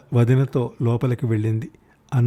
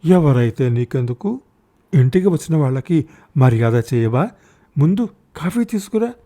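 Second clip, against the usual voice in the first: bossy bluster; 3 semitones higher than usual. Acted. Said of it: "దబాయింపుగా అంది".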